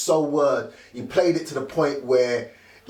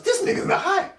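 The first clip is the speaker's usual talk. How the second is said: a mock rapper voice pitched up; imitating a rapper. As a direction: mimic his disbelief in a raised voice. Imitating a rapper's reaction.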